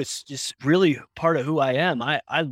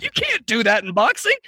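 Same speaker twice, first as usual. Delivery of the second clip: high-pitched mock outrage; acted squealing disbelief; incredulous protest; 10 semitones higher, 4 dB louder than usual. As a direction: protest the foul in a pained, raised pitch. Boxer protests being kicked.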